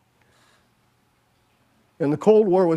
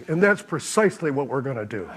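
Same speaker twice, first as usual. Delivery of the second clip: laughing; 3 dB quieter than usual. Retold or imitated. Laughing retelling punchline.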